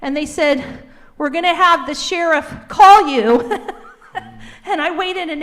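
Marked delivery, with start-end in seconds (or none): 1.2-3.8 laughing through the words; a rueful laugh breaking into the line. Real, not acted. Complaining to the council, laughing bitterly.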